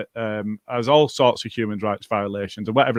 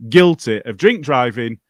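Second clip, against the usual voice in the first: angry emphasis; 5 dB louder than usual. Real, not acted. Host furious that a guilty drink driver still played, punching guilty. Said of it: "not this one".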